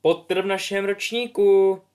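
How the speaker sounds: lightly voiced gossiping girl. Girl voiced excitedly whispering gossip.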